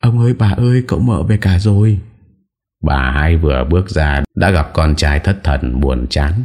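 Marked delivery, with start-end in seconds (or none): 0.0-2.0 high ringing call across the house; shrill calling out. A narrator's reading. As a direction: servant girl calling the family that everyone is home. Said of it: "lanh lảnh gọi vọng".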